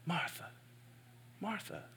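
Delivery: gentle Martha call. Acted. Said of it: "almost emphatic".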